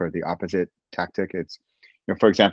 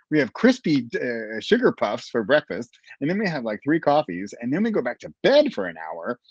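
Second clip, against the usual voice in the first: higher-pitched, animated retelling; animated nutritionist; 5 semitones higher than usual. Retold or imitated. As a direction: riff eagerly as her, pitch swooping up. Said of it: "seeing her so animated and coming up".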